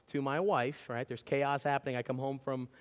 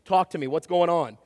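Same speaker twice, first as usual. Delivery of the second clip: loud stern command; firm telling-off; 2 semitones higher, 6 dB louder than usual. Retold or imitated. Dad scolding daughters caught kicking each other, loud and stern. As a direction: bark it out to stop the fight.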